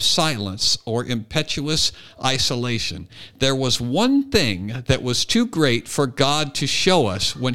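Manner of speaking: measured literary read-aloud; reading a quote aloud. Acted. Host reading a Chesterton quote to co-hosts, measured recitation. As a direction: read the passage with deliberate, weighted phrasing.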